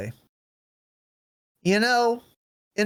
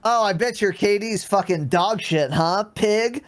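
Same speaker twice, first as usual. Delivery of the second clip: higher-pitched mock trash talk; toxic taunting; 4 semitones higher than usual. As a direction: needle a captured opponent for fun.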